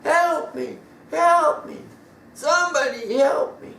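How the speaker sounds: high, loud, desperate calls; a boy stuck in a pit screaming for help; crying out for help. A narrator's reading. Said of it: "He screamed out, crying so loud".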